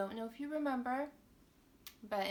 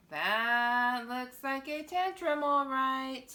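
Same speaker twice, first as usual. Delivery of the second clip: emphatic remark; 5 semitones higher, 8 dB louder, slower than usual. Acted. Reacting to the tantrum picture.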